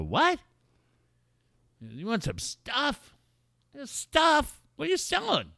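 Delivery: high, bright, innocent questions; high, naive tourist voice; naive eager tourist. Retold or imitated. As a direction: play dumb and eager, voice up high.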